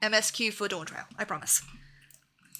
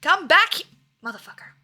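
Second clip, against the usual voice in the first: frustrated yell; 6 semitones higher, 7 dB louder than usual. Real, not acted. Chasing fleeing beast in game.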